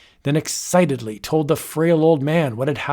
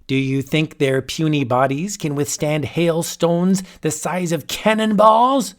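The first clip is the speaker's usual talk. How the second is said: boastful wizard; 2 semitones higher than usual. Acted. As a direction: savour each threat. Wizard threatens the men.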